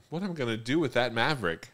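high, loud, fast mock-mom exclamation; imitated excited mom. Soccer mom stops to look at onlookers, imitated excited exclaiming. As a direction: toss it out quick and high as the hectic mom.

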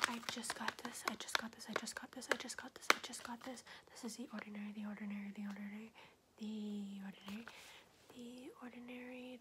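rapid whispered word repetition; quick aggressive whispered triggers; fast whispering asmr. Acted.

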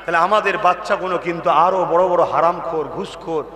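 low, solemn preaching; grave warning. Acted. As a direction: warn them gravely.

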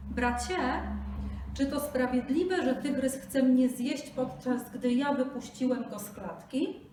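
high, loud desperate plea; pleading Brahmin. Acted. Brahmin begs the buffalo for justice, high and pleading.

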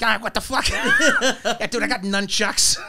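lightly voiced exasperated kid; indignant six-year-old ranting like a comic; Bill Burr. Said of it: "he went all Bill Burr".

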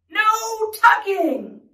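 high, very slow drawn-out cry. Acted. Reader leads listeners as the refusing crew, crying out. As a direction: stretch each word for listeners to copy. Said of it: "the crew cried".

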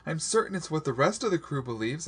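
very high, distraught accusation; high-pitched, overwrought outburst; crying out, rushing on. A narrator's reading. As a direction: pour out the accusations, pitch held way up. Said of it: "I rushed on".

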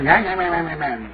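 rapid nah-nah jeer, imitating a demon; mock demon taunting. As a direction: mimic a childish, sing-song taunt. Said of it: "then he went to".

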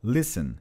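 "Listen" pronounced without any T; silent T. Shown as a demonstration. Teacher proving the T is not pronounced, silent T in "Listen". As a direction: drop the T in "Listen", just an s before the ending. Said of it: "esse T não é pronunciado".

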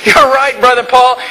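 put-on a mildly excited young fan; excited young man. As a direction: mimic his enthusiasm. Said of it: "he was all excited".

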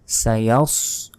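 সায়াস slow, emphatic স of সদ; clear সদ. Shown as a demonstration. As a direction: stress the heavy স. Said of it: "সদের উচ্চারণ করতে হবে".

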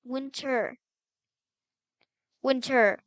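loud, falling call of the name; stern call. Pretend. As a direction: summon a missing sister firmly. Calling sister more sternly.

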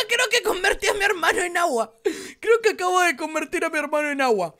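hammed-up tearful confession; mock crying. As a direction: fake sobbing apology. Confesses turning brother into water.

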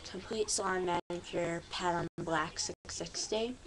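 talking around a retainer; slightly lisping with a retainer in; wearing a retainer. Real, not acted. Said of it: "I talk so funny. Um, I have a retainer".

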